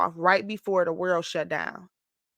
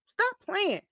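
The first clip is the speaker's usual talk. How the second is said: excited; 9 semitones higher, 3 dB louder than usual. Real, not acted. Joking to herself.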